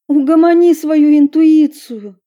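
loud, sharp retort. Acted. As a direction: snap it at her. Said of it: "резко бросила Ева".

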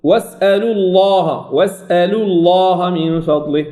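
slow recitation, heavy L in «الله» after U; lam enfático após damma. Shown as a demonstration. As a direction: darken the L of الله after واسألوا. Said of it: "أو الضم".

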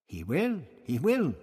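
high, light reassurance; assuring. A narrator's reading. Tonilla assures Barbara that Outlock will speak, assuring. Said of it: "Tonilla assured her".

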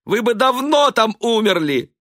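high, loud hurt protest; stung retort. A narrator's reading. Stung wife retorting to her husband. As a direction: fire back, wounded.

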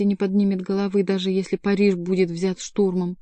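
usual speaking voice

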